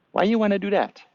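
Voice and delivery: lightly voiced grumpy old monkey. Monkey voiced in meditation story.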